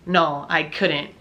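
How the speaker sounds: slow, dry sarcastic no. Retold or imitated. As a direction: drag it out mockingly, as if it's obvious. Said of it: "he said in a sarcastic tone".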